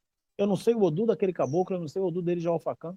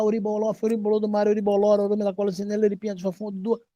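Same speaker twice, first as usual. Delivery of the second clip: chanting the prayer in a light imitation of a Japanese accent; higher, louder sing-song with a put-on Japanese accent; Japanese-accented chant, gently mocked; 6 semitones higher, 4 dB louder, faster than usual. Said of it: "com sotaque de japonês".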